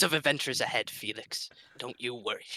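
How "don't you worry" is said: whispered reassurance, no voice; soft whisper. Acted. Greenbeard whispering comfort to Felix the cat. Player soothing the cat quietly.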